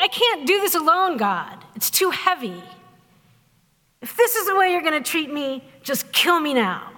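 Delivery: mildly hammed-up weary complaint; kvetch, dropping off in resignation; exasperated kvetching. Overburdened Moses pleading with God, exasperated kvetching. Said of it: "exasperated Jewish grandmother kvetching".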